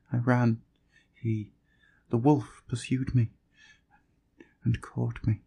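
high, faint, broken with pauses; weak and fading. Acted. Dying girl recounting attack.

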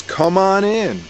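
slow, inviting witch voice pitched high; witchy fortune teller. Acted. Fortune teller greets the farmer.

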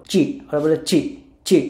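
"চি" with a ch sound. Shown as a demonstration. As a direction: say "চি" for CZ, like Bengali চ. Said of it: "চর মতো". ("চি", চ-এর মতো উচ্চারণ)

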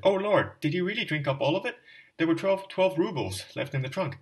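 loud, high, desperate outcry; wife crying out over the lost rubles, despairing; despairing shout. Acted. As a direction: wail it out in furious despair. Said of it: "she shouted".

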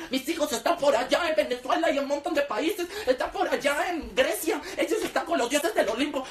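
lightly voiced snobbish aunt; bragging aunts. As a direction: show off about the kids abroad. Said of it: "Es como".

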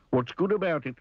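high, scornful grumble; grumpy retort. Acted. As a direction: scoff at the greeting. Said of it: "said Mister Grumpy".

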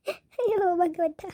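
a slow, drawn-out sobbing cry to God; slow sob. Acted. Mother weeping over her sick husband, slow sobbing. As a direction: sob the words out slowly. Mother weeps by hospital bed.

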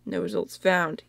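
reads the result in a whisper. Real, not acted. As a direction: whisper it as if reading off the screen. Reads search result aloud.

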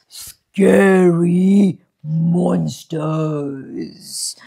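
slow, breathy spooky whisper. Acted. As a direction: hush it like a ghost story. Whispered scary build-up.

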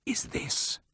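low, soft and menacing; ominous quiet. A narrator's reading. Siegfried to his brother, ominously quiet. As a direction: hold the fury under a quiet voice. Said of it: "he inquired with ominous quiet".

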